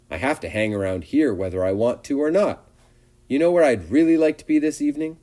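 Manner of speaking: lightly voiced eager little pig; wistful pig Wilbur.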